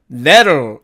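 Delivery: "that'll" as "der", tapped t swallowed into the ending; contracted that'll. Shown as a demonstration. Teacher giving the alternative form, contracted. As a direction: say "that'll" like "derl", tightly reduced. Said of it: "이렇게 발음이 됩니다".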